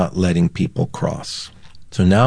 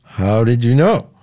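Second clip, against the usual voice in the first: sheepish, hesitant answer rising at the end; 3 semitones higher than usual. Retold or imitated. Man caught by the state trooper, sheepish. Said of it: "I kind of sheepishly grinned and said".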